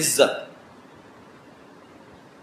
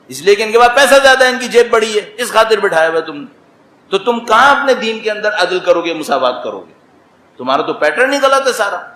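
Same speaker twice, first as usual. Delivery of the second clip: stern, raised rebuke of the wealthy; harsh scolding; 4 semitones higher than usual. Retold or imitated. Preacher rebuking donors seated on sofas, harsh and raised. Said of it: "یہاں سختی سے بول رہا ہوں".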